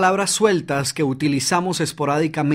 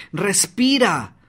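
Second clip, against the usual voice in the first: slow and calm; 4 semitones higher, much slower than usual. Shown as a demonstration. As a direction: draw the word out slowly. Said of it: "comienza por hablar pausadamente".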